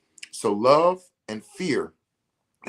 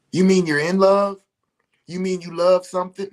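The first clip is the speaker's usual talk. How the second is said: mock confused listener; 8 semitones higher, 6 dB louder than usual. Imagined listener's confused reply.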